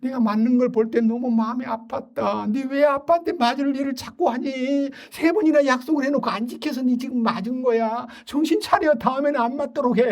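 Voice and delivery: a hint of a tender mother; gentle mother. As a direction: soothe while scolding, like mom. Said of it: "약 발라주면서".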